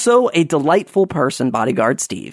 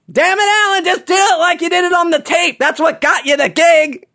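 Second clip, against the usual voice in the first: high put-on teasing director voice, raised well up; mock-bossy jab from behind, pitched way up; Mary Scheer impression; 13 semitones higher than usual. Castmate ribbing the new guy from behind him, in a high mock-stern voice. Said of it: "Mary Scheer from behind me goes".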